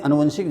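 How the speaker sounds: अनुवंशिक starting with short "a"; wrong form. Shown as a demonstration. Teacher shows a mistake, अनुवंशिक with short first vowel. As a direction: say अनुवंशिक as a-nu-van-shik. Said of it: "जो कि गलत है".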